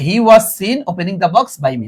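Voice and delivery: very slow, each word stressed; teacher reading the answer slowly; slow model read. Shown as a demonstration. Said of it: "দেখো কোথায় আসছে".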